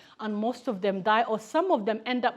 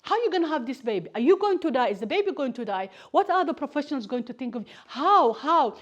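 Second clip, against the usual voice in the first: rapid, rising panic, getting louder and higher; anxious trauma voice; 3 semitones higher, 5 dB louder than usual. Retold or imitated. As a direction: rattle off fears as the panic builds. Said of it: "your trauma comes and says".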